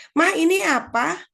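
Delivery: put-on high, drawn-out child's question; curious child. Child following mother into the kitchen, curious. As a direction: pester Mom like a little kid. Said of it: "anaknya ikut ke dapur ya".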